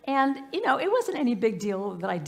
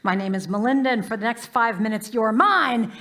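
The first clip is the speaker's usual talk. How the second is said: bus driver announcement; 7 dB louder than usual. Retold or imitated. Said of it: "she says".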